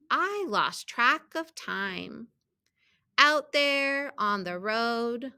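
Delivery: measured storybook reading with stressed key words; children's story read-aloud. A narrator's reading. Teacher reading a picture book to students, storybook read-aloud. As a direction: read it out carefully for young readers.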